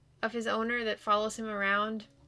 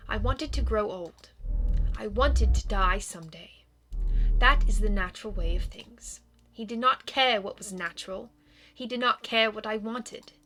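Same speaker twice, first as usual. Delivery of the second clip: lightly voiced, measured vampire ghost; a touch of solemn regret, pausing between phrases; reserved vampire recalling an old hurt; wistful vampire ghost; 5 dB louder than usual.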